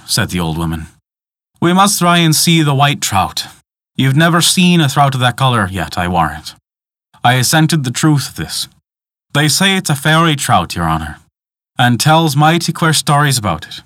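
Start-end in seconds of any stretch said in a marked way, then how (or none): 1.6-6.5 a hint of an old Irish guide; old woman earnestly coaxing a visitor; lightly voiced old countrywoman. 9.3-13.8 a hint of an old Irish guide; old woman earnestly coaxing a visitor; lightly voiced old countrywoman.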